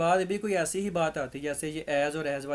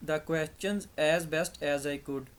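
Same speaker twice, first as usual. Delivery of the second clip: slow dictation read; much slower than usual. Shown as a demonstration. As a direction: read the sentence out slowly. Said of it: "I answered". (धीमे धीमे वाक्य पढ़ना)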